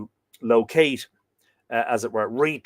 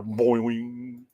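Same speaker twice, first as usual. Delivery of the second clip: drawn-out "boing" with a humming tail; long springy sound effect; bow and arrow twang. Shown as a demonstration. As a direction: imitate a bowstring ringing out. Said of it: "for the bow and arrow".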